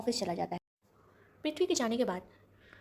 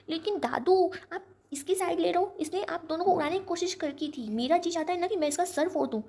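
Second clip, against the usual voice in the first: high, loud, indignant pleading; a granddaughter raging at the visitor; furious protest; 7 semitones higher, 5 dB louder than usual. Acted. Kaya argues against grandfather. (ऊँची आवाज़ में गुस्से से विरोध)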